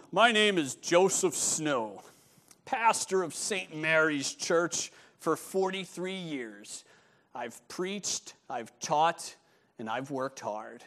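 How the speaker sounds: lightly put-on deep, solemn voice; slow, measured, mock-deep self-introduction; a self-important minister's slightly deepened voice; really deep voice. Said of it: "really deep voice".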